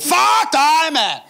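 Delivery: high, loud shout. Retold or imitated. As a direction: yell it at him through the door. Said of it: "ved at råbe". (råber højt og aggressivt)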